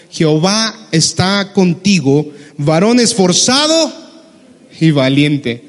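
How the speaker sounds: sarcastic. Retold or imitated. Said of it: "Así como bien sarcástico nuestro Dios".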